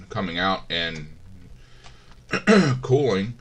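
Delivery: throaty, clearing the throat mid-sentence; frog in throat. Real, not acted. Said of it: "I got a frog in my throat this morning".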